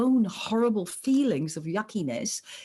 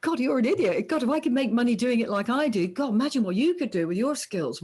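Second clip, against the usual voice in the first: scornful mockery; 4 semitones higher than usual. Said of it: "they laugh at them and they go".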